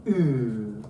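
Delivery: OO held long and pure; vowel demonstration. Shown as a demonstration. Teacher shows the class a lovely sound, drawn-out vowel. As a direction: draw out OO, savouring the vowel. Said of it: "which is a lovely sound".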